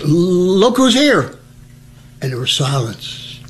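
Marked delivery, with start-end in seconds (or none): 0.0-1.3 flustered mistake. Retold or imitated. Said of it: "And I stuttered a little bit".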